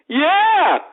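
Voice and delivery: high, loud, goofy yes; earnest eager answer. Retold or imitated. Guy in line missing the sarcasm, oblivious eagerness. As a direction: blurt it high as a clueless enthusiast. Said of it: "answer her question like she was being serious".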